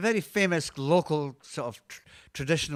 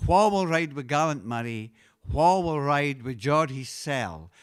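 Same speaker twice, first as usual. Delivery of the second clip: Scots dialect chorus line; 3 dB louder than usual. Shown as a demonstration. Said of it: "the first line is".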